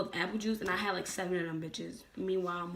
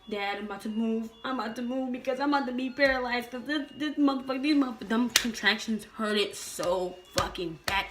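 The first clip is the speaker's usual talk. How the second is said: higher-pitched, mildly acted pleading; crying panic; 4 semitones higher, 3 dB louder than usual. Her to dad during the epidural, mock crying panic. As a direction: retell a frantic plea, half-crying. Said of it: "I'm sitting here crying like".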